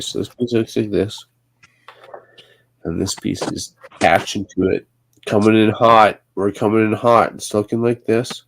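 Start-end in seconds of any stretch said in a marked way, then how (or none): 5.3-7.3 louder, punchy announcement; playful hype. Real, not acted. Builder hyping his own move, playful hype. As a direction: call it like a pilot landing. Snapping Lego piece into place.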